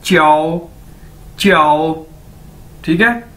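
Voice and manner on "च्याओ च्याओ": "च्याओ" drawn into one gliding chyao; model pronunciation. Shown as a demonstration. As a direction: repeat "च्याओ" for learners, ch blended into yao. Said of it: "तो word क्या है".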